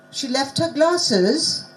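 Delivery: "She left her glasses" drawn out with a question tune. Shown as a demonstration. Teacher testing trainees on question or statement, slow questioning tune on "She left her glasses". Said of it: "Is this a question or a statement?".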